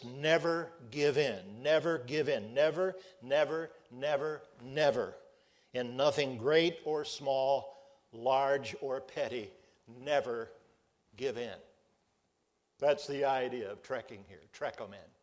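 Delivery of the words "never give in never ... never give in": Churchill quote. Retold or imitated. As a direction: declaim never, never, never like a wartime speech. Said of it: "he said was this".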